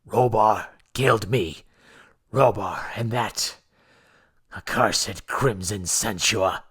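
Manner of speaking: whispered, slow, fading breath; a dying king's last words; faint dying gasp. A narrator's reading. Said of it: "He gasped faintly".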